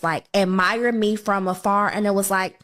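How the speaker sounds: ordinary delivery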